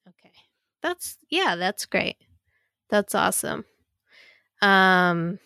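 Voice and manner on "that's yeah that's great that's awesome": deadpan, unimpressed praise; sarcastic. Real, not acted. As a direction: say it with dry, hurt sarcasm. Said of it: "This sounds sarcastic".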